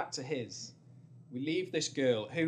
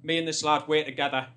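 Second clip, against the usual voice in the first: brushing her off; 2 semitones higher, 8 dB louder than usual. Retold or imitated. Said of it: "he goes to this girl".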